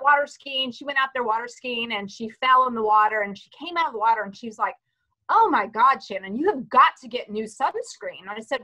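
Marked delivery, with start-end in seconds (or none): 5.3-8.2 mother's exclaimed complaint. Retold or imitated. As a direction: imitate an exasperated mom making a demand. Acting mother complaining after falling in.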